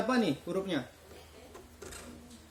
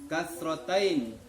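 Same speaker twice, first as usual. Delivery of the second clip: slow drilled answer; 4 semitones lower, much slower than usual. Shown as a demonstration. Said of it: "kalau ini".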